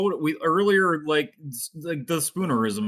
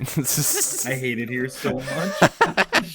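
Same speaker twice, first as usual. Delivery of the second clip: laughing; much slower than usual. Real, not acted. Laughing at a dumb joke.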